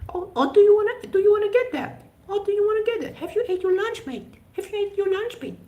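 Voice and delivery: very high, squeaky put-on Kardashian accent; mock Kardashian accent. Streamer showing how people around you might talk, mock Kardashian accent. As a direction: send up a Kardashian-type accent in a piercing high pitch. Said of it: "Kardashian family type of way".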